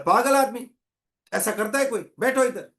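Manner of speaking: scolding guard. Retold or imitated. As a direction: tell him off like a rattled guard. Guard scolds man he rescued. (डांटता हुआ चौकीदार)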